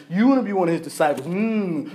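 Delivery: mild mock childish teasing; childish taunt. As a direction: tease like a kid sticking out a tongue. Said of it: "childish, stick their tongue out".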